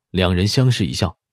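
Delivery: plain reading voice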